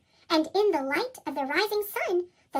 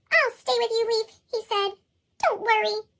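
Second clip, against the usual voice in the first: Fletcher comforting the leaf; 5 semitones higher, 3 dB louder than usual. Acted.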